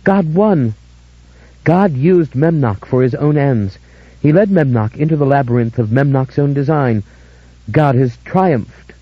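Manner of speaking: high tearful ecstatic cry; tearful rapture. Acted. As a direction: weep with joy. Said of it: "Dora cried, tears gushing".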